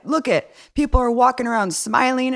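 high, squeaky mocking imitation; mock Larry King. Imitating Larry King's cheery scolding, way up high. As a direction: pitch it way up like a clueless old host. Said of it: "He was like".

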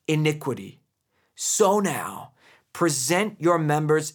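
measured solemn Bible reading; scripture reading. Acted. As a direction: read the passage with weight and pauses. Reads scripture passage aloud.

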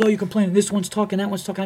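mocking complaint. Club employee throwing complaints back at comedian, mocking. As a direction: mimic someone parroting a whiner.

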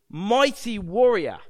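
loud, drawn-out heroic growl; growling heroic read. Shown as a demonstration. Preacher reading Gideon's mighty title aloud, growling. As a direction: growl it out slowly and loudly. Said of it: "it growls when you read it".

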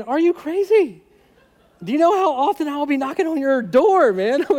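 incredulous, laughing through it; half-laughing at the crazy offer; laughing disbelief. Retold or imitated. Laughing disbelief at friend's generous car offer. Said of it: "I remember thinking".

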